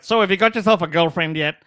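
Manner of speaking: mock robotic Asian-accented mom; mother's Asian accent. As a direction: quiz him like your Asian mother, stiffly. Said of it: "she talks like this".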